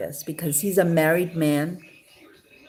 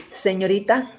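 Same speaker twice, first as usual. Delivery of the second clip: Spanish line; faster than usual. Retold or imitated. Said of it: "such a lame line".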